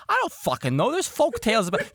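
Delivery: loud, high squabbling comeback; defensive shouting. Acted. Crewman cut off defending folk tales, defensive shouting. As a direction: yell back, flustered and high. Acted quarrel, friend defends himself.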